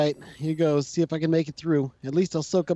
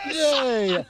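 excited cheer; 7 semitones higher than usual. Real, not acted. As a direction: cheer with delight. Celebrating escape in game.

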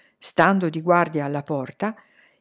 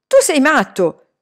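higher, louder cry of protest; shouted outburst; 6 semitones higher, 6 dB louder than usual. A narrator's reading. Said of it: "gridò Salman". (grido di protesta)

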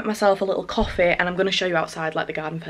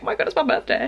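excited; 8 semitones higher, faster than usual. Retold or imitated. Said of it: "I was like".

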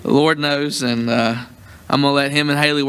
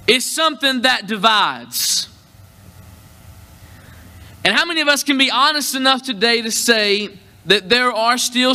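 preaching; 5 semitones higher than usual. Real, not acted. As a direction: announce it deliberately to the congregation, stretching key words. Announces sermon title and opens preaching.

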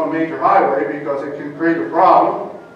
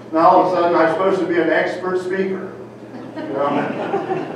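laughing. Real, not acted. Laughing about becoming an expert.

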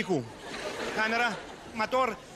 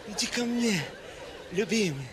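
bride's line; 4 semitones lower than usual. Acted. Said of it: "Реплика невесты".

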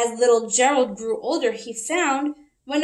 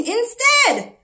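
lively rhyming read-aloud; reading to children. A narrator's reading. Teacher reads a picture book to the class, lively. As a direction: read it with bouncy rhythm for kids.

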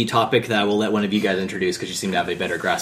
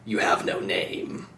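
Snake impression; 4 dB quieter, slower than usual. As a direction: growl it slowly as Snake. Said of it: "thanks for joining us, Snake".

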